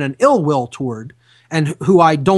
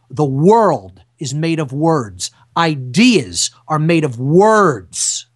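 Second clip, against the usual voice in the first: slow proclamation; slower than usual. Acted. Preaching his point slowly.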